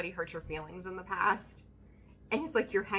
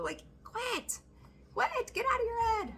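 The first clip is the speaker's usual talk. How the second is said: emphatic urging. Real, not acted. Urging Leo to quit overthinking.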